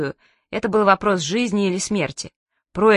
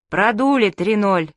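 sepulchral voice; slower than usual. Acted. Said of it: "загробным голосом поделился папа".

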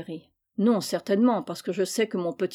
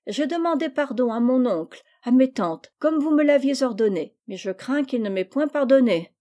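put-on complaining girl; 3 semitones higher than usual. Gisèle complains to her mother.

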